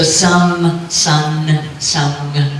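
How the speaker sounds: "some, sun, sung" one by one, each final m, n, ng kept distinct; distinct final nasals. Shown as a demonstration. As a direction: separate "some", "sun" and "sung" by their endings. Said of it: "should all be clearly different".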